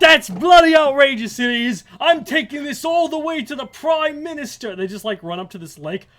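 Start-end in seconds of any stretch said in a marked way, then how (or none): 0.0-4.8 high, loud Aussie bluster; hammed-up indignant shout, Australian accent; mock Australian outrage. Member of parliament hearing the complaint, outraged Australian shout.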